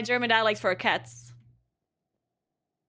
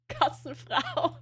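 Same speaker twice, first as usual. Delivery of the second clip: slow word squeezed out through laughter; amused slow laughing read; 3 semitones higher, slower than usual. Real, not acted. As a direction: read it while cracking up. Reads dialect word, laughing.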